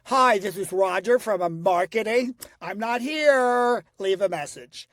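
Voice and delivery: a loud, stretched mock of his own message on playback; mock played-back voicemail. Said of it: "when he played it back to listen to it".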